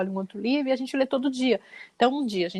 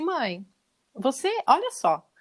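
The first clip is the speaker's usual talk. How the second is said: patronizing son; slower than usual. Retold or imitated. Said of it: "assim, exatamente assim, com essas palavras".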